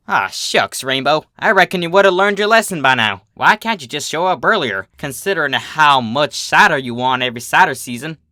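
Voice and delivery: lightly voiced folksy farm mare, gently chiding; ribbing a friend, country-style; teasing Applejack.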